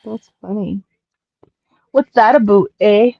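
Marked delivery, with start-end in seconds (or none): 1.9-3.1 lightly mocked Canadian accent. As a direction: put on a shaky attempt at Canadian. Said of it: "I think it was meant to be Canadian".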